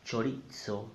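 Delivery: Chorizo with z as ts, cho-REET-so; incorrect pronunciation. Shown as a demonstration. Teacher showing the mistake, Chorizo said with ts. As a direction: mispronounce Chorizo with a ts in the middle. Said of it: "is not correct".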